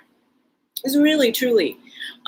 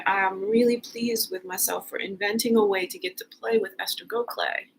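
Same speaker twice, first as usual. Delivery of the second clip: usual speaking voice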